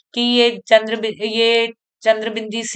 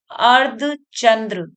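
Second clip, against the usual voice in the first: slow term; slower than usual. Shown as a demonstration. Teacher introduces a new term.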